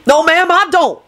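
high, haughty denial. A narrator's reading. Lucretia dismissing Rosie's story, haughtily. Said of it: "Lucretia sniffed haughtily".

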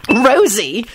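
pleasantly surprised call of a name; light up as you say the name; delighted. Acted. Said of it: "she said delightedly".

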